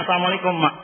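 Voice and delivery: confident greeting to mother in an even voice; plain, assured salam; different greeting. Acted. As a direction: greet mother steadily, without faltering. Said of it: "beri salam yang berbeda".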